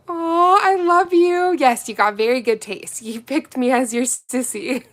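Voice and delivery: high, loud affectionate gush. Real, not acted. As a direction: coo with delight. Thanking a fan, gushing.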